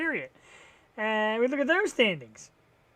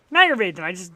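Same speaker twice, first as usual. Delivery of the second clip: aggravated outburst; 9 dB louder, faster than usual. Real, not acted. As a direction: blurt out your frustration, loud. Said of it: "I'm very aggravated".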